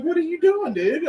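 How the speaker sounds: very high, laughing disbelief; amused outrage at the bird; incredulous laugh. Retold or imitated. Man holding a seagull, high laughing disbelief.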